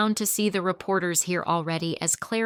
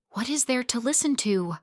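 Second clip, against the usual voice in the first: spat angrily; 6 semitones higher than usual. Acted. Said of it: "I spat angrily".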